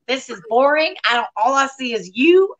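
lightly Southern, complaining mother; Southern accent. Retold or imitated. Mother complains that the Zoom is boring, Southern accent. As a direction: imitate an unimpressed Southern mom. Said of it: "you had a Southern accent there".

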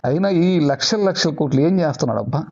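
usual speaking voice

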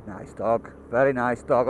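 soft admiring aside. Real, not acted. Admiring a passing dog.

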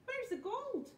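high, loud pirate shout; shouted demand. A narrator's reading. Pirate chief confronting the troll about the treasure, shouting. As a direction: shout it as an angry question. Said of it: "shouted Hank Chief".

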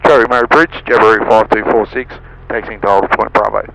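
tinny radio call over static; crackly radio. Real, not acted. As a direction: aviation radio transmission.

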